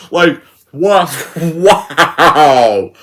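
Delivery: a drawn-out "wow" through laughter; laughing disbelief. Real, not acted. Critic reacting to hilariously bad acting, laughing. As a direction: laugh as you say it, incredulous.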